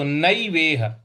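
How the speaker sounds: नैवेह said with open ai on नै. Shown as a demonstration. Teacher repeats the ai vowel for the class. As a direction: stretch नै into nai. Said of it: "इसको हम ऐ बोलेंगे".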